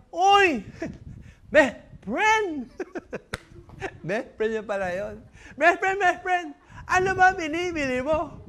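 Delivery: delighted to see a friend; happy high shout; excited greeting. Acted. Son recognizes best friend.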